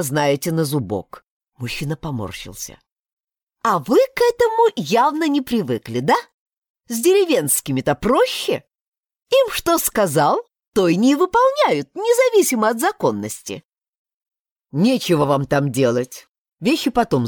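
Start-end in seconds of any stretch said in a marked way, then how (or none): 3.6-13.6 put-on higher, insistent young woman; heroine's higher voice. Heroine insisting to the deputy, higher and firm. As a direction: press your right politely but firmly.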